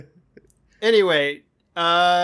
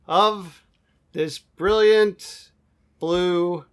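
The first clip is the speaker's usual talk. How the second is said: grand dramatic narration; slower than usual. Acted. Grandiose flourish ending show intro.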